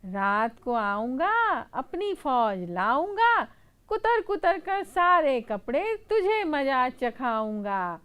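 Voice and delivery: slow, loud threatening chant; mouse threat. Acted. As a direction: warn him with a menacing singsong. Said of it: "चूहा बोलता है". (धीमी, ऊँची धमकी भरी चूहे की आवाज़)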